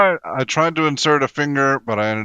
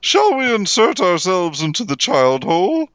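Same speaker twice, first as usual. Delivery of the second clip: repeat for the back; 6 semitones higher than usual. Pretend. Player repeating the line on request, projected mock-formal proposal. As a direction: project it up high for the crowd. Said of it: "One more time for the people in the back".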